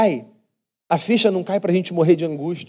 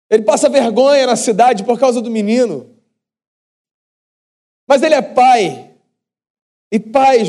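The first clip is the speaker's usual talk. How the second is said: higher, louder preacher's build to the climax; rising preaching; 5 semitones higher, 3 dB louder than usual. Acted. Preacher stirs the congregation with the father's running, raised and forceful. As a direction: drive the point home from the pulpit.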